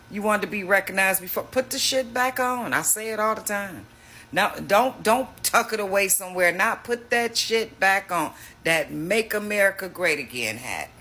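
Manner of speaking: rising exasperated call-out; heated demand. Real, not acted. Mocking demand to wear hats.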